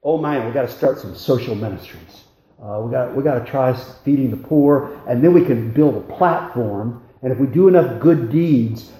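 lightly voiced, offhand planning talk, low and soft; imagined casual suggestion. Preacher voices what Paul didn't say on reaching Corinth, mock casual. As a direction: toss it off as a half-hearted alternative, understated. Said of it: "he didn't say".

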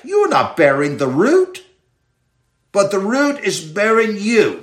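"you" opens the line with weight; stress on YOU. Shown as a demonstration. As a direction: land firmly on "you".

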